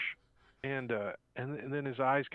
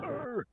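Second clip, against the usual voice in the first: mock growl; 12 semitones higher than usual. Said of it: "He's like".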